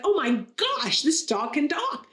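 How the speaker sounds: hammed-up astonishment at a joke's marvel; amazed, going crazy. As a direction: play the joke's stunned customer, voice lifting a little. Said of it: "the guy starts to go crazy".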